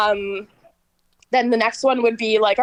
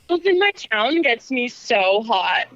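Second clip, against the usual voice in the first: sultry narrator; slower than usual. Acted. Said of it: "in a sexy voice".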